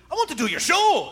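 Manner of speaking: quick put-on Scottish lilt, lightly done; Scottish accent. Host retells Craig Ferguson offering to appear, in a light Scottish accent. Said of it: "after my Scottish accent".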